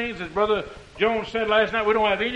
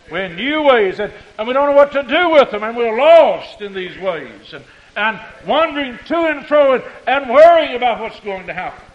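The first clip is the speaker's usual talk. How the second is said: louder, urgent pulpit delivery; preaching fervor; 2 semitones higher, 6 dB louder than usual. Real, not acted. Preacher lamenting churches lost in new ways, urgent. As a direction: press each point on the congregation.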